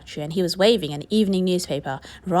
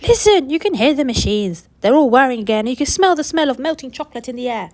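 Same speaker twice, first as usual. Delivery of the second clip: louder, higher eager calling; excited crowd; 5 semitones higher, 5 dB louder than usual. Acted. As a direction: urge everyone to listen. Crowd shouting at the gates.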